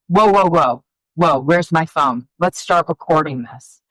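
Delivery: loud, excited whoa, hurrying to record; excited amazement. Retold or imitated. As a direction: grab the moment before it's gone. Mom thrilled hearing son play.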